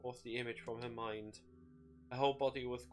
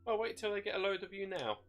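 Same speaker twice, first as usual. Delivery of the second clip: higher, smug taunting voice; gloating demon voice; 7 semitones higher than usual. A narrator's reading. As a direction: rub it in with glee. The shade gloating.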